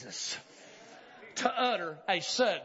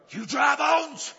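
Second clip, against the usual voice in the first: slowed and a bit louder; measured prophetic call; firm slow call; 4 semitones higher, 6 dB louder, much slower than usual. Acted. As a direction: call out to the bones. Prophet's call, first take.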